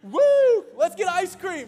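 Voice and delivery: hammed-up cheer, thanking someone who didn't help; sarcastic mock relief. Sarcastic reply to "just calm down.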